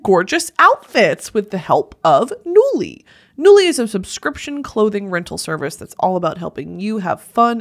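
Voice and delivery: bright steady sponsor read. Acted. A steady, upbeat sponsor read for Nuuly. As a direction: sell the rental service smoothly.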